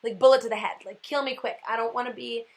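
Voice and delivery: mocking myself, bargaining with Jesus over an easy death. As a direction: haggle over the kind of death. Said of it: "And then I'm like".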